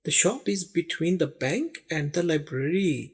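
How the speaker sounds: very slow, every word spaced; slow model sentence. Shown as a demonstration. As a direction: read it out slowly for learners. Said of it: "slow model sentence for learners". (सीखने वालों के लिए बहुत धीमा वाक्य)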